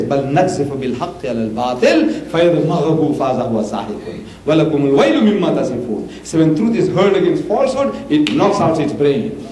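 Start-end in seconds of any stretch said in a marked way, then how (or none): 0.0-6.3 Quran recitation. Retold or imitated. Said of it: "And Allah says".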